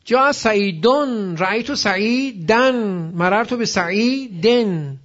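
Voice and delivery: "سعیدون", "سعیداً", "بعیدن" ending -don, -dan, -den; three case endings. Shown as a demonstration. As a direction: drill changing endings from "سعیدون" to "بعیدن", slowly. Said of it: "نگاه کن، دون دن دن".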